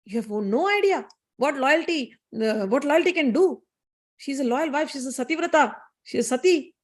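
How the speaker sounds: lightly voiced indignant goddess; stern rebuke. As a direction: pronounce judgement, mildly outraged. Goddess rebukes and banishes her servant.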